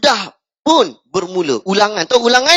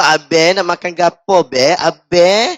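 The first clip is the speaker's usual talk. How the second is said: put-on Kelantan girl voice; 2 semitones lower than usual. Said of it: "Awak sebut".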